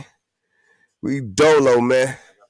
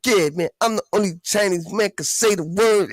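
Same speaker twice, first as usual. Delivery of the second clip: a higher, hammed-up imitation of the rapper; light imitation of a bragging rapper, pitched up; mock rapper voice; 8 semitones higher than usual. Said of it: "the Chinese guy was like".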